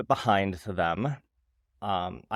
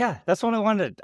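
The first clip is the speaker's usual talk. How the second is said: excited; 10 semitones higher than usual. Real, not acted. Eager agreement, excited.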